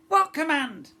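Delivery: high, loud scratchy squawk; scratchy question. A narrator's reading. First mate puzzled by the girl, high scratchy squawk. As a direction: ask it like a rusty hinge.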